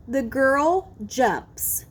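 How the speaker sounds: slow demo, crisp S ending jumps; clear final S. Shown as a demonstration. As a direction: say "jumps" slowly with a distinct final S. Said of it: "Did you hear the S sound".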